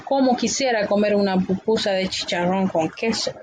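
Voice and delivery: a lightly voiced wishful craving; mild dreamy longing, slightly changed voice. Shown as a demonstration. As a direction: sigh out the wish for the pupusa. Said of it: "una oración de deseo".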